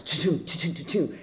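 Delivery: quick punchy "choom" sound effects; imitated CSI zoom effect. Storyteller imitates a CSI zoom toward the ear, sound effect. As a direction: voice a TV zoom-in effect in short bursts. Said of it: "like a C S I thing goes".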